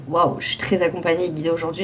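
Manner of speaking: put-on airhead valley girl voice. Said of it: "je parle comme une pétasse".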